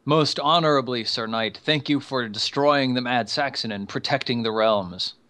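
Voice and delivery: Nud voice. Acted. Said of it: "He says".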